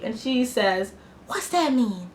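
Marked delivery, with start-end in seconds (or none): 1.3-2.1 lightly voiced naive woman; a hint of mocking character voice; Mimi's voice. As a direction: imitate her simple, puzzled question. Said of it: "that's how she talks".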